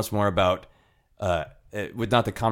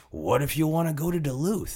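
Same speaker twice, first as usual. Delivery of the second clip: put-on dreamy, romantic longing tone, higher pitch; 8 semitones higher than usual. Retelling a dad's words about driving to Duluth: imitating dad's romantic tone. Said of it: "he said it with, like, such romance".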